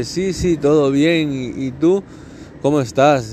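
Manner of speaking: mock sweet friend asking how you are; friend's sugary answer. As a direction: lay the charm on thick before asking.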